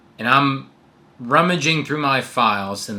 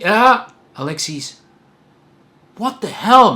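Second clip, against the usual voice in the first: higher, louder exasperated friend voice; friend's tough-love rant; 4 semitones higher, 3 dB louder than usual. Retold or imitated. Friend snapping him out of complaining, exasperated. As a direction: play the buddy who's fed up and sets him straight.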